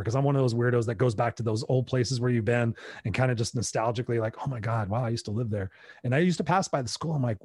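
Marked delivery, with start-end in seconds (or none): 4.4-5.7 softer, hushed nostalgic wonder; wistful nostalgia. Retold or imitated. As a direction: remember the old home quietly. Nostalgic visit to old places.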